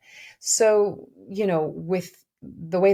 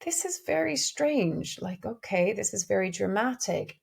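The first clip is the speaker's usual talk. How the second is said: put-on bemused child; 3 semitones higher than usual. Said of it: "I remember going".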